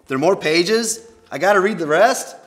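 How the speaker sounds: high, loud, incredulous questions; dismayed disbelief. Acted. Dismayed that pages remain.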